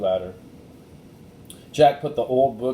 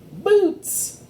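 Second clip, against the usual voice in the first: high squeal of delight; excited exclaim; 5 dB louder than usual. A narrator's reading. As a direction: squeal it out with glee. Annie excited at boots.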